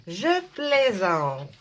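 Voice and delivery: drawn out with a laugh. Real, not acted. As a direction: laugh it off slowly.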